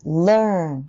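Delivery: learn with the tongue tip moving from front to back; sliding learn. Shown as a demonstration. Teacher showing the tongue travel in learn. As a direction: glide audibly from the l into the er of learn. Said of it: "すごく移動する音がするんですよ".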